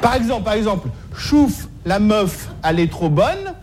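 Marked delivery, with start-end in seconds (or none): 1.2-3.5 put-on slangy Parisian street talk with a slight accent; Parisian verlan accent. Son showing off playground verlan, slight Parisian accent. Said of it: "avec un petit accent parisien, en verlan".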